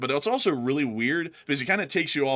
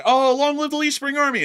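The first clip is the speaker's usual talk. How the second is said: high loud rallying cry; rallying greeting; 8 dB louder than usual. Retold or imitated. Host greeting a fan who knows him, high loud rally cry. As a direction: hail them like a fellow soldier. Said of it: "I'm always like".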